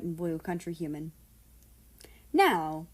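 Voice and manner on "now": chirpy. Acted. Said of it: "Nazi chirped".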